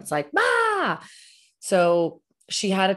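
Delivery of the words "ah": short, very high mock child's shriek "Ah!"; mock tantrum shriek. Mother imitating a five-year-old's tantrum with a high shriek. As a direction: shriek like a little kid losing it.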